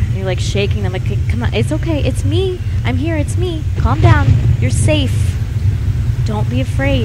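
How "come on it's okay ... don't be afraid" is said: soothing parent. Acted. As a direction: lightly act waking a child from a nightmare. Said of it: "wake a kid up who's having a nightmare".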